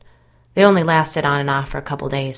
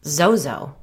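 puzzled, questioning echo of a name; a touch of bewilderment; confused; 4 dB louder than usual. A narrator's reading. Jason puzzled by the name of the entity, confused. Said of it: "confused again".

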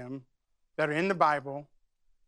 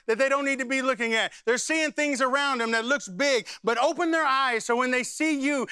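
higher-pitched, urgent pleading prayer; fervent prayer; 4 semitones higher than usual. Shown as a demonstration. Pastor praying scripture over family before the congregation, fervent. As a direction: plead with the Lord in a raised, driving voice. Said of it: "I'm gonna show you how to pray this".

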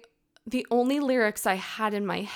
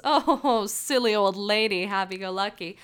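put-on carefree old lady act; 3 dB louder than usual. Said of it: "on the outside I was this".

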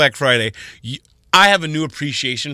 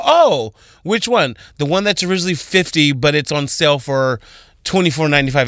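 cheerful clerk voice. Retold or imitated. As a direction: play the chipper salesclerk. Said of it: "I go".

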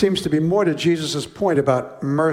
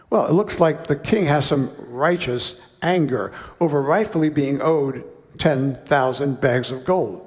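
usual speaking voice

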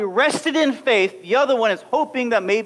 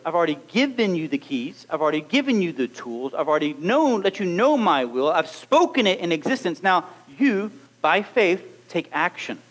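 calm Jesus; 4 semitones lower than usual. Acted. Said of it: "What Jesus did was".

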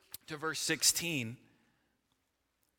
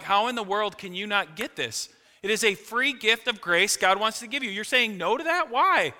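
rising higher and louder in disbelief, ending in a near-shout; exasperated plea; 6 semitones higher, 5 dB louder than usual. Pretend. Believer pleading with a skeptic, exasperated and rising. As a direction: build to a frustrated Why.

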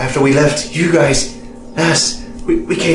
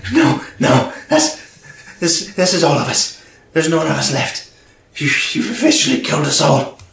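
pleading goblin, breaking whisper; begging goblin; 3 semitones higher than usual. Acted. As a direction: plead for your life, groveling. Groveling goblin begs for life.

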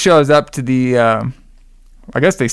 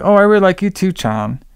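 higher-pitched, light imitated reply; casual reciprocation; 6 semitones higher than usual. Vince answers Tara's confession, casual mock reply. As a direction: toss it back lightly, acting out the other character. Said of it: "And then Vince is like".

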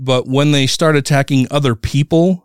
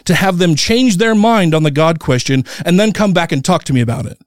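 heated, higher-pitched challenge without a full yell; retold yelling; 6 semitones higher than usual. Atheist daring protesters to pray, retold yelling. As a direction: re-enact an angry dare, keeping volume near normal. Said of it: "I'm fucking yelling it".

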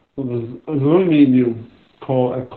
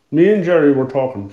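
eating ice cream. Real, not acted. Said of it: "Sorry, I'm eating ice cream".

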